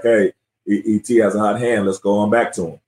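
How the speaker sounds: calm, low-pitched retelling of a teammate; imitated calm advice. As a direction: quote the teammate's steady suggestion, pitched low. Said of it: "you said it so calmly".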